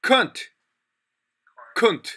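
"cunt" short, high and falling; demonstrated pronunciation. Shown as a demonstration. Teacher explaining the misheard word, careful demonstrated pronunciation. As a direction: say "cunt" as an isolated, clipped word. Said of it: "Can't means".

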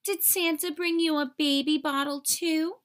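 sneering bully's question; high, mocking mean girl; mocking taunt. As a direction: jeer at her. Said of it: "said a voice".

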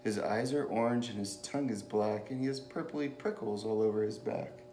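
animated picture-book storytelling; lilting story read, with lively character lines; reading to children. A narrator's reading. Reader telling children about a mouse and a Gruffalo, storytelling.

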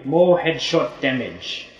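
slow, put-on British accent; mock British accent. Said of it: "Are we really doing British accents".

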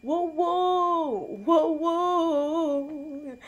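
cheering woo; excited cheer. Real, not acted. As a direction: whoop it up.

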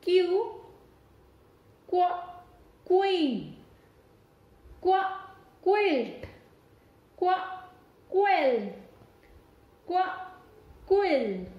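teacher drilling Q words; phonics word drill. Shown as a demonstration. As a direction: sound out क्यू, क्व, क्वीन for kids. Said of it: "So let's do it again".

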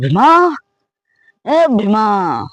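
calling Bhima from afar. Acted. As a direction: shout his name to find him.

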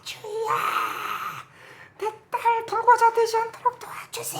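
very high, wailing cry of a pleading father; imitated desperate prayer shout. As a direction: act out screaming to God for his child, building to full volume. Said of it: "막 소리 지르는 거예요".

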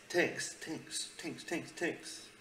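high, mocking little repeats; playful high-pitched echo; mocking repetition. Mockingly repeats the clip's word.

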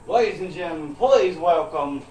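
announcer intro. Acted.

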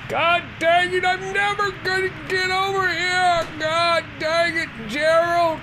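frustrated Southern redneck shouting at Gerald. Acted. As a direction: holler it like an angry Southern redneck. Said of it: "Now I'm a redneck".

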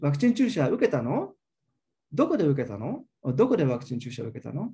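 each "受けたの" ends on a question rise; two rising questions. Shown as a demonstration. Lecturer juxtaposes two questions, rising on each "の". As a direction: lift the end of every "の?" as a separate question. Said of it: "then you have two rising intonation".

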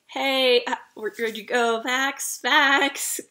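retold call after a lost companion; acted anxious holler for a friend. Retold calling after a vanished companion.

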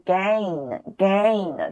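gain with clear final n, not gay; pron with final n. Shown as a demonstration. Teacher corrects students: gain ends in n. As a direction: end gain on a ringing n sound. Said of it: "千万不要读成gay".

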